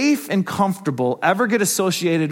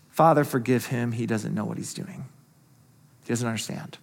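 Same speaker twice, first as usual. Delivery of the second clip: hushed plea; 8 semitones lower, 7 dB quieter than usual. Retold or imitated. Jesus speaking from the cross.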